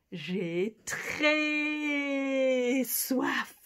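guinea pig voice. Pretend. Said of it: "It must be saying".

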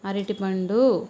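అరటిపండు drawn out slowly, syllable by syllable; slow, clear అరటిపండు; slow teaching. Shown as a demonstration. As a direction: model అరటిపండు slowly for a toddler to copy. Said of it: "చెప్పు".

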